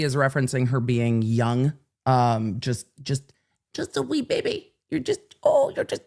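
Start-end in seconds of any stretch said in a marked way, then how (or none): 3.7-6.0 high mock baby talk. Recap of baby tease.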